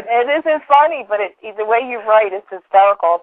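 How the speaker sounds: apologetic, amused, trying to stop laughing. Real, not acted. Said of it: "I'm laughing".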